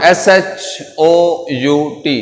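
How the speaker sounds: each letter stretched, very slowly; slow spelling out. Shown as a demonstration. Teacher spells a new word for students, very slowly. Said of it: "next word है शाउट".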